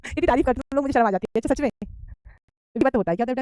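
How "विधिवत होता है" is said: विधिवत stretched out very slowly; slow dictation. Shown as a demonstration. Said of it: "teacher dictates answer". (धीरे-धीरे विधिवत लिखवाना)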